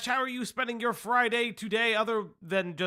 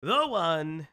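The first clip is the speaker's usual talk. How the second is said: building announcer buildup, landing louder on the name; announcer introduction; 3 dB louder, much slower than usual. Acted. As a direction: hype up the co-host's entrance. Introduces co-host.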